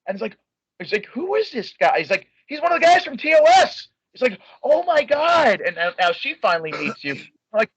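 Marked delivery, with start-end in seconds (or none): 1.1-5.6 voicing Kelsey.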